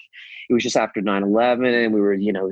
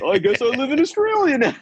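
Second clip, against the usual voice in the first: mock resigned surprise; 14 semitones higher than usual. Mock resigned self-quote.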